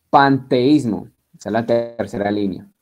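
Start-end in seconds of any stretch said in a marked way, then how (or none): 0.1-1.1 Panteísmo stretched out, very slow, every syllable clear; slow dictation. Shown as a demonstration. Teacher dictating Panteísmo to students, very slow. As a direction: drag out Panteísmo so it can be copied. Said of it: "con tilde en la I".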